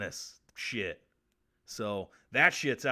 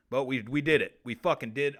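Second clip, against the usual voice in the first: proud and punchy; we pulled it off, said louder; triumphant, louder; 7 dB louder than usual. Real, not acted. Host celebrating finishing the show, loud and proud.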